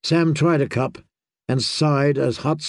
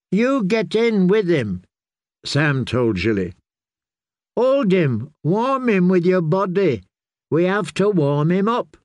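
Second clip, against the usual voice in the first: urgent orders; 5 semitones higher than usual. A narrator's reading. Sam urgently ordering Jilly.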